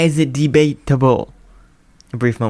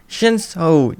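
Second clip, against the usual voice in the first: cry out; 4 semitones higher than usual. Acted. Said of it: "Jiro cried".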